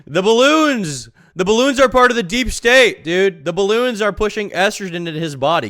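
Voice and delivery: high, loud hammed-up tirade; over-the-top mock panic about balloons; mock outraged rant. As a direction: rant like a paranoid man losing it over balloons. Mocking Wes's balloon meltdown.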